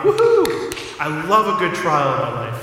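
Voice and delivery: high squealing woohoo, then overjoyed, loud and high; mock cheerful whoop. Preacher mocking someone who loves trials, hammed-up glee. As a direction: ham up a fake delight at suffering. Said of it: "and they've gone".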